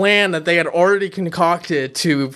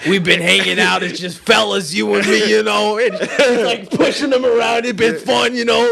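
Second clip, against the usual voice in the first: mock bro voice. Mocking the girl's confession.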